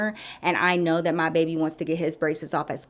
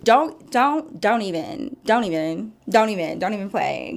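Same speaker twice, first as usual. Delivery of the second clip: excited. Real, not acted. Hyped warning to the audience.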